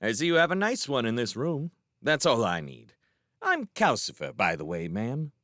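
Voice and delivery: lightly voiced, lively fire demon; a hint of a perky little demon; chatty fire demon.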